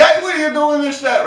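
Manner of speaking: lightly mock an angry woman calling someone out; retold confrontation.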